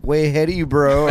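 cocky high mock Trump line. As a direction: toss it off like a smug meme. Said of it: "a picture of Trump and it's saying".

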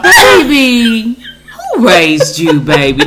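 playful, slow-drawled Black mama praise. Pretend. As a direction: gush like a proud mama, half laughing. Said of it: "get my black mama voice out".

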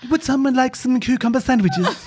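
lightly voiced posh English lady; a hint of a prim hostess offering tea. Host does his cucumber sandwich character, lightly posh English voice. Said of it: "Oh, Little Britain".

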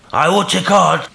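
high, loud cry cut short; impassioned high call, suddenly halted; sudden break-off. A narrator's reading. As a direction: cry out, then check yourself suddenly. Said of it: "checked itself as suddenly".

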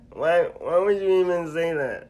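high, very loud comic wail of protest; hammed-up comedian shriek of wounded disbelief; Kevin Hart. Friend acting out his shock at being called weak, Kevin Hart impression. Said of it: "Do it in your Kevin Hart voice".

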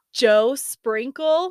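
slow hushed reveal; dramatic whisper. Acted. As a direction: breathe the name slowly.

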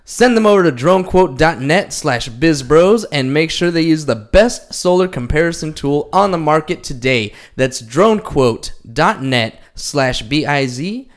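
upbeat sponsor ad read. Acted. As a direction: pitch the product with energy. Reads sponsor ad copy.

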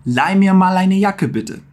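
slow softened German request; slow polite model. Shown as a demonstration. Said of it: "colocar um mal logo depois do mir".

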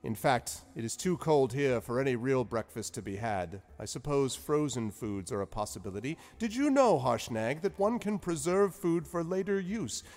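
high, loud, genial wizard voice; lilting, high wizard Zephyros; cheery old wizard. Acted. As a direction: play the jovial wizard host. Wizard voice again.

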